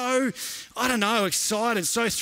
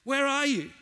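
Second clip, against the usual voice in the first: higher, slow, pleading call; anguished cry to God; 4 semitones higher, slower than usual. Acted. Preacher voicing the doubter's plea, drawn out and anguished.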